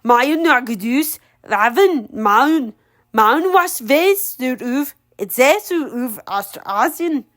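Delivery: slow ogre words, lightly amused; laughing ogre. Acted. Ogre mocking Ella in Ogreish, mildly amused. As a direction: savour the ogre words slowly. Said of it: "He started laughing".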